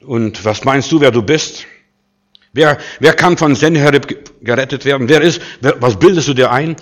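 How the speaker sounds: lauter, herablassend fragen; höhnische Herausforderung. Acted. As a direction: den König verhöhnen, lauter werdend. Spott des Assyrers gegen Hiskia. (Assyrer verspottet Hiskia, laut und höhnisch)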